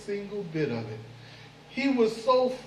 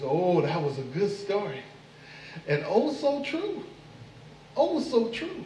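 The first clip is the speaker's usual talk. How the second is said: sly mock praise. Anansi flatters Brother Moth again.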